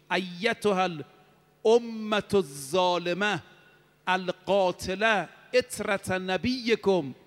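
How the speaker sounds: slow, drawn-out solemn proclamation in Arabic; herald's cry. Retold or imitated. Preacher voicing the heavenly herald to his congregation, slow solemn cry. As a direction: call it out slowly like a voice from the sky. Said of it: "اون ندا این بود".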